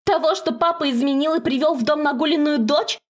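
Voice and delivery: flinging her father's affair at her mother; accusing shout. Acted. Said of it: "кричит Зела".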